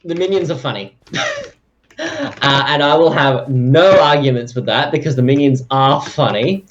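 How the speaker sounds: loud, emphatic mock rant. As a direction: insist with no room for argument.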